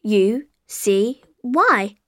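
letter by letter; spelling it out. Shown as a demonstration. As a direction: spell each letter clearly.

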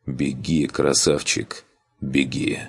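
soft and tender, nearly a whisper; caring, softly. Acted. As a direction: quietly urge him to run. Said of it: "выделила секунду на заботливое".

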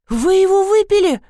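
high-pitched horrified question; gasped in shock. A narrator's reading. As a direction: cry it out aghast, voice leaping up. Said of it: "ахнула няня".

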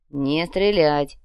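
through teeth. Acted. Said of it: "сквозь зубы процедил".

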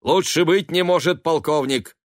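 high, loud, hearty greetings; exclaiming. A narrator's reading. Son greeting family without waiting for answers, exclaiming. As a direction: hail everyone at full cheer. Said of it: "воскликнул он".

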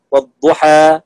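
والضحى ending in a full open a; fath, open a. Shown as a demonstration. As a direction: keep the end of والضحى open. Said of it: "فتح". (والضحى بالفتح)

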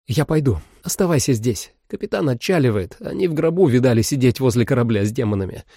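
lightly voiced woman giving orders; woman's voice. Holly gives orders.

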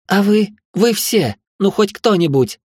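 high, pleading shout to everyone; desperate cry. A narrator's reading. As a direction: beg anyone at all to help. Desperate plea to bystanders. (отчаянный крик)

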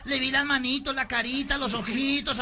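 high, loud wail easing into lament; melodramatic insistence. Acted. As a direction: insist in a campy, stretched-out cry. Personaje insiste melodramático en su aborto. (lamento agudo y melodramático)

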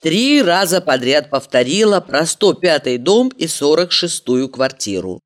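ordinary delivery, nothing marked

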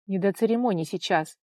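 ordinary delivery

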